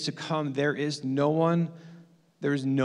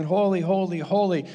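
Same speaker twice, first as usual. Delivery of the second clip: imagined worship cry; 4 semitones higher than usual. Retold or imitated. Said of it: "join with everybody else saying".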